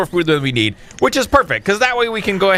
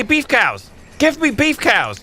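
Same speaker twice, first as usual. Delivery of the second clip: high pleading demand; demanding whine; 7 semitones higher, slower than usual. Real, not acted. Frustrated player begging the supplier for beef cows.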